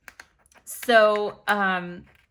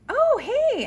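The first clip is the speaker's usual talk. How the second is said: jumpy high greeting from the neighbor; nervous neighbor voice; 6 dB louder than usual. Retold or imitated. Neighbor greets the woman he's been questioning, jumpy high voice. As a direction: play the caught-out neighbor, voice shooting up.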